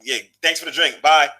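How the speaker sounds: lightly voiced dismissive girl; mock arrogant. Mimicking the woman who took his drink, mildly snooty brush-off. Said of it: "so arrogant".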